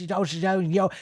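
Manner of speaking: mumbled mock European accent; imitated European accent. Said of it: "he started to talk like this".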